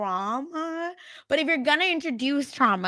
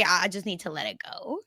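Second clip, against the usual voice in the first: breathy whisper, no voice; whispered aside; 4 semitones lower, 6 dB quieter than usual. Real, not acted. Host conceding the show is basic, whispered aside. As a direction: let it out as a whisper.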